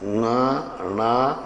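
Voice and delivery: ङा, णा stretched slowly with nasal ring; slow nasal demo of ङा, णा; drawn-out nasal letters. Shown as a demonstration. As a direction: hold ङा and णा long through the nose. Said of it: "अनुनासिक ज्ञा".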